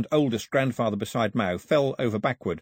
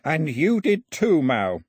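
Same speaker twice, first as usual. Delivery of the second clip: slow, raised, winded insistence; panted insistence; 6 semitones higher, 5 dB louder, slower than usual. A narrator's reading. Priest to Mao after the escape, panted insistence. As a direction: press the point while short of breath. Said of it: "he panted".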